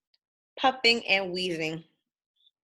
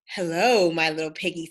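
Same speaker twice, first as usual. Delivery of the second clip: sly wolf greeting; 5 semitones lower than usual. Acted. Wolf sneaks up on pig.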